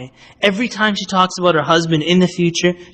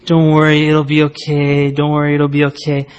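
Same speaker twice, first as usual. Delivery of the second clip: reassuring; 3 semitones lower than usual. Retold or imitated. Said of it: "the reaction that everyone gives her".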